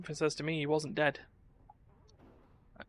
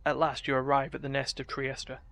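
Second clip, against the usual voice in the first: dramatic storybook narration; story narration. A narrator's reading. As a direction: read it like a fantasy saga. Narrates arrival at the nest.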